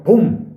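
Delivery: sudden loud "pum" impact; imitated thud. Narrator imitating a fall onto concrete, sudden loud thud. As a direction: punch out a short, high bang.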